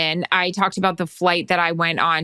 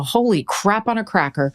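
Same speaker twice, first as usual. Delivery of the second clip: a light impression of a sitcom actress in a TV ad; Kaylee Cuoco impression. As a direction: lightly put on the actress's ad line. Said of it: "Kaylee Cuoco says in the Big Bang Theory commercial".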